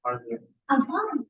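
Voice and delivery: light, upbeat "I'm fine" with falling end; bright. Shown as a demonstration. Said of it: "That's tone".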